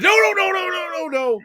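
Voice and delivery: high, loud cartoon-style "no"; cartoon chorus shout. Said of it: "it was like a cartoon".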